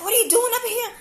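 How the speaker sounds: a hint of her indignant tone; mock indignant roommate. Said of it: "And she's like".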